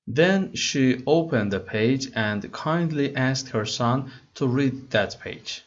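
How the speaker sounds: slow, careful read-aloud of English text; slow story reading. Acted. Teacher reading the English story to students slowly. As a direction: read each word slowly for learners.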